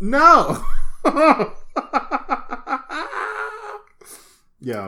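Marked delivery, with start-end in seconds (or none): 0.7-3.8 a long high laugh; long laugh at the joke; high cackling laugh. Real, not acted. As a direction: break up laughing.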